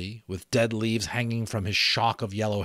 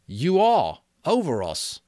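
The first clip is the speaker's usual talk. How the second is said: put-on higher, louder worried boy's voice; anxious boy Ralph; 8 semitones higher, 6 dB louder than usual. Ralph calling to Piggy across the platform, anxious. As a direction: call out to Piggy, uneasy.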